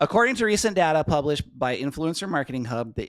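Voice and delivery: loud, hammed-up Minnesota accent; thick Minnesota accent. Shown as a demonstration. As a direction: read the business news like a Minnesotan. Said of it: "killing it so hard with that accent".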